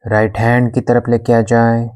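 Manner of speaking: even, unhurried yoga nidra guidance; guided meditation. Acted. Yoga teacher guiding a class in shavasana, calm meditation voice. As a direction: guide them into stillness, with long pauses between instructions.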